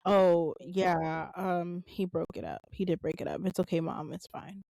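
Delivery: a daughter downplaying it to her mom; covering for dad. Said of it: "she was just like".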